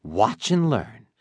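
confident. Acted. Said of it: "with my most confident voice".

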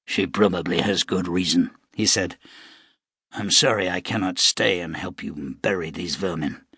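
a lightly voiced weary gunman; wounded gunman. Shano voiced lower.

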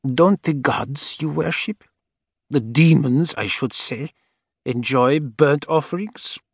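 put-on high, slow, cold old woman. A narrator's reading. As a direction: taunt her slowly like an old woman. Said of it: "cold, dry whisper".

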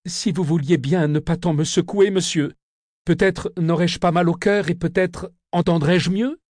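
put-on scared little boy begging the convict; frightened boy pleading. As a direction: beg him to stop shaking you. Narrator voices pleading boy.

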